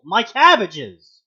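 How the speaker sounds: loud, slow anguished yell; cabbage merchant yell. Retold or imitated. Friend comparing Steve's cry, loud slow anguished yell. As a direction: wail it like the cabbage man. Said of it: "in the same tone you would yell".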